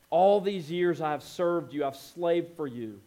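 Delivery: bitter. Retold or imitated. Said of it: "And he says".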